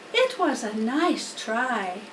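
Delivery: slow, gentle comfort; kind reassurance. Acted. Charlotte consoling Wilbur, slow and gentle. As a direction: soften the blow.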